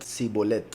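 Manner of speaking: Sibolet said with a plain s, si-bo-let, no sh. Retold or imitated. Preacher imitating how Efraín said it, Sibolet with s. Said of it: "ellos pronunciaban Sibolet".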